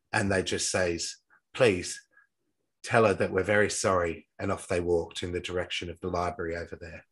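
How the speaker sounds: lightly attempted English accent for a quote; shitty English accent. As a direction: read it with a half-hearted English accent. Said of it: "Sorry for my shitty English accent".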